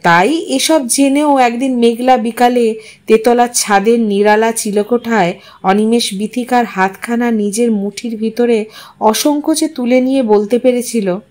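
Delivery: plain reading voice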